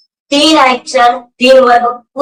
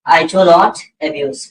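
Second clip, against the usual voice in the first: slow model answer; 4 semitones lower, much slower than usual. Shown as a demonstration. Teacher models answer for class.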